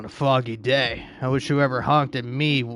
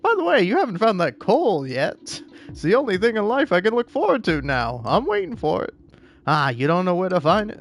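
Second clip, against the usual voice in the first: high character voice; 5 semitones higher than usual. Acted.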